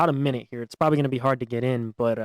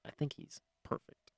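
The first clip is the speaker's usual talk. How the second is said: soft whispered aside, almost no voice; whispering; 14 dB quieter, slower than usual. Real, not acted. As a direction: whisper it like a secret. Correcting himself, whispered aside.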